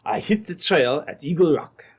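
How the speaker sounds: put-on light French-Canadian trapper's accent. French trapper explaining to the sergeant, light French accent. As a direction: speak as a French trapper telling his story. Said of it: "this half-baked Frenchman".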